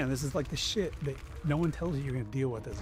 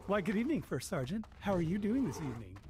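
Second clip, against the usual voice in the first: lightly voiced, overly cheerful Marine on the phone; chipper; 4 semitones higher than usual. Duty sergeant Josh calling the first sergeant late at night, mock chipper. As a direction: sound a touch too pleased at midnight. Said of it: "All, like, chipper".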